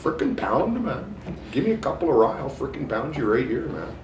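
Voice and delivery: put-on high, rowdy northern Alberta accent; a rough northern Alberta guy picking a fight; loud, high northern Alberta tough-guy impression; northern Alberta Wolverine. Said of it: "the real Wolverine from northern Alberta would say".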